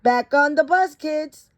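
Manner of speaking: put-on brisk call to the kids; teacher calling class. Teacher calls the class back onto the bus, lightly voiced. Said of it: "Miss Frizzle said".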